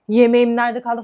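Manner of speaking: a customer yelling at the waiter for food, mock shout. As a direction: bark it at the waiter, half mocking. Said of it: "falan diye garsona bağırıyor".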